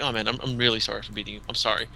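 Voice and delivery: soft, earnest imitated apology; quick and quiet, sincerely sorry; genuine apology. Imitating a player apologizing to the man he beat, sincere. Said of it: "the apology was genuine".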